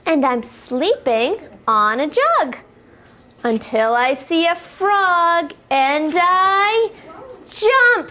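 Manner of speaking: sing-song rhyming read-aloud for toddlers; lilting picture-book voice, building to the jump; reading to children. Acted. Teacher reading a rhyme to little kids, sing-song.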